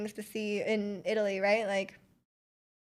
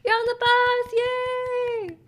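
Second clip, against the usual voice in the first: higher, louder cheery put-on voice; mock friendly local; 11 semitones higher, 4 dB louder, much slower than usual. Locals greeting the Canadian tourist, high cheery put-on voice. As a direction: chirp it like a cheerful stranger. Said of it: "They'll be like".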